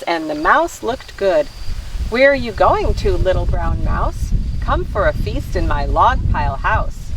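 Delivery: animated read-aloud with swooping pitch; story narration. A narrator's reading. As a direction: read a picture book to children. Reads picture book aloud.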